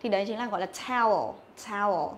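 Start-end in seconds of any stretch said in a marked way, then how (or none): 0.9-1.3 towel said with a long "ao" glide; teacher's clear model of "towel"; model pronunciation. Shown as a demonstration. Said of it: "chúng ta nghe thấy âm gì đấy? Âm ao". 1.7-2.1 towel said with a long "ao" glide; teacher's clear model of "towel"; model pronunciation. Shown as a demonstration. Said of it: "Âm ao".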